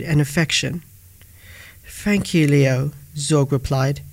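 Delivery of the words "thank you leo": warm. Acted. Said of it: "his voice filled with warmth".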